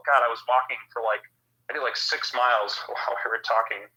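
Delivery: winded from a long walk; breathless and drained; out of breath. Real, not acted. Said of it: "I sounded out of breath".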